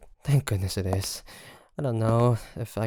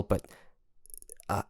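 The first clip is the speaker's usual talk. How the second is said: usual speaking voice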